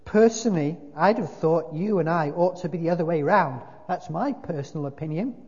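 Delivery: "personally" hit high and loud; emphatic. A narrator's reading. Ghost giving his personal opinion, emphatic "personally". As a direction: lean hard on PERSONALLY, then ease off. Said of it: "with an emphasis which contradicted".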